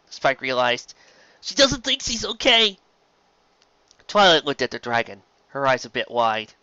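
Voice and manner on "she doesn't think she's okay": high, anxious realization; dawning fear. A narrator's reading. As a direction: let the fear dawn. Spike realizes.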